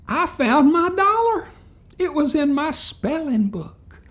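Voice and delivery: high, loud, whining announcement; whiny girl. Retold or imitated. Marilyn announcing to the teacher in a high whine. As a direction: blurt it out like a whiny child. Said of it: "Marilyn grew out of her whining".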